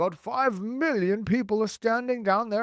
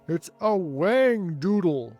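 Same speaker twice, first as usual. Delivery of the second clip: loud, higher, drawn-out yell; 4 semitones higher, 6 dB louder, slower than usual. A narrator's reading. Fire chief naming the monster above him, yelling. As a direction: yell it slowly in alarm. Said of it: "yelled the head of the fire department".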